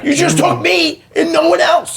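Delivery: high-pitched mock grievance; protesting kid. Son blaming his mother in a story, aggrieved protest. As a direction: complain like a child left without playmates.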